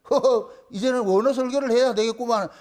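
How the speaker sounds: dry scoffing chuckle into irony; imitating sarcastic surrender; mock sarcasm. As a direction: feign resignation with a mocking little laugh. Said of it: "이게 하나님 비아냥거리는 거예요".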